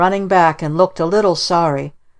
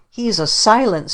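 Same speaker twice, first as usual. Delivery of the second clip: put-on higher, a child's mild yell; mild mock scream; 5 semitones higher than usual. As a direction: shriek it, understated. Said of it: "he screamed".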